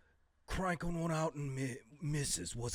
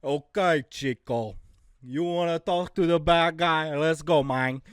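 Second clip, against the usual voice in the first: louder swaggering wrestler promo; Razor Ramon bad-guy voice; 3 semitones higher, 10 dB louder than usual. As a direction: bark it like a cocky wrestler cutting a promo. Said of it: "I'd be doing".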